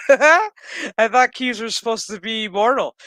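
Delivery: high, loud disbelieving cry; outraged yell. Retold or imitated. Fan retelling her reaction to Q dying, outraged yell.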